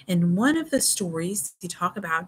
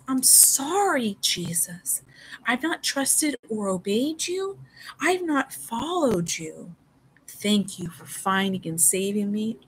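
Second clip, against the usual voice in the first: sincere prayer; 3 semitones higher, slower than usual. Acted. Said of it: "when one sinner says".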